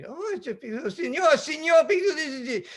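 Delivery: high, sweet Latina radio operator; friendly Latina voice. Retold or imitated. Chilean operator greeting the sailor, high and sweet. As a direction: sing it out sweetly, Latina lilt. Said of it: "this gorgeous Latino voice".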